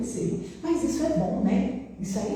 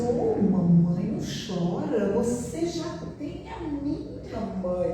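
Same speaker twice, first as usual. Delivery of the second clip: tender comforting; 4 semitones higher, 3 dB quieter, much slower than usual. Retold or imitated. Daughter comforting mother.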